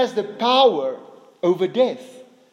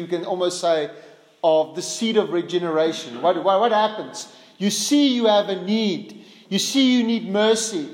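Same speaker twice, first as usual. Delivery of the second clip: usual speaking voice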